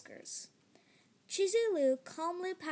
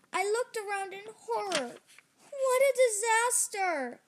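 horrified narration; 4 semitones higher, 4 dB louder than usual. A narrator's reading. Sewage floods house.

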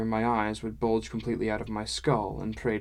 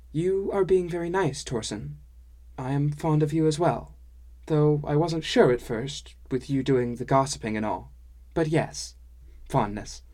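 higher lilting dwarf-woman voice, friendly; higher-pitched dwarf woman, kindly candid; fond dwarf woman; 4 semitones higher than usual. Acted. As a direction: admit fondness in a lilting character voice.

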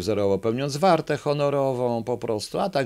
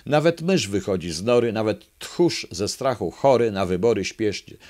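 rhythmic verse read aloud to the audience; poem reading. Acted. Speaker reading a children's fable to the audience, rhythmic recitation. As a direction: recite the rhyming fable with a lilt.

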